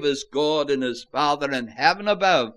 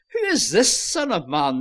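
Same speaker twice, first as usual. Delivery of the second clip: higher-pitched question with a long, pointed "this"; stress on THIS; 5 semitones higher than usual. Shown as a demonstration. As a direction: hit "this" and hold its final s. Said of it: "place the emphasis on that word".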